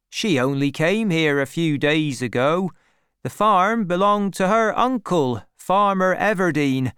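village man explaining, a bit animated; lightly voiced villager. A narrator's reading. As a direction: tell the newcomer the local news.

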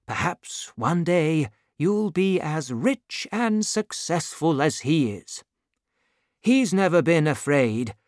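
earnest father advising his son, lightly acted; a hint of a proud Gascon father; lightly voiced old father.

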